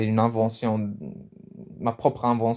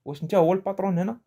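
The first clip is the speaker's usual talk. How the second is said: acted challenge; 7 semitones higher, faster than usual. Shown as a demonstration. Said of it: "on peut rajouter le wesh".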